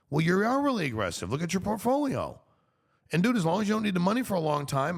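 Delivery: high-pitched, insistent pushback; exasperated insistence. Acted. Retelling his answer to a friend about the portfolio, exasperated insistence. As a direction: set a complaining friend straight. Acted reply to complaining friend.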